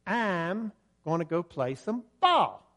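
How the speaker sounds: slow, drawn-out Kentucky drawl; Kentucky accent. Retold or imitated. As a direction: stretch it out like a Kentucky local. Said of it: "right there ... He would say".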